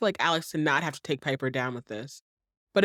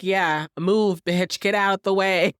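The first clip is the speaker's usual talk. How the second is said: mock Suzanne telling off; 5 dB louder, slower than usual. Suzanne ordering Alex away.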